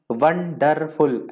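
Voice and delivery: वंडरफुल split into three separate syllables. Shown as a demonstration. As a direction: break वंडरफुल into slow pieces, pausing after each. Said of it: "अलग-अलग टुकड़ों में बोलते हैं".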